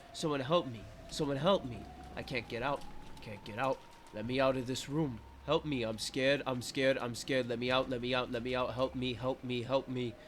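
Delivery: rapid, insistent pleading in an even pitch; mounting panic. Acted. Trapped narrator begging to get out of the room, mounting panic. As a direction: repeat it like a frantic, looping chant.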